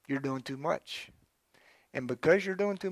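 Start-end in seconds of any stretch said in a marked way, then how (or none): 0.1-1.1 softer repeat. Shown as a demonstration. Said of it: "You're trying to do too much".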